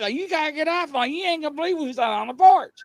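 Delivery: high, breathless urging; urgent pleading. Retold or imitated. Grandson urges grandma to see who's on porch, urgent high plea. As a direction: beg her to come see, wide-eyed.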